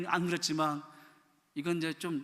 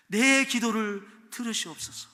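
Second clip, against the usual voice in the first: pleading cry; 5 semitones higher, 7 dB louder than usual. Acted. Psalm cry read out.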